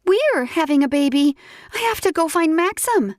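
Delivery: high, eager and bubbling; excited rush. Acted. Narrator eager to tell Maxim, high and excited.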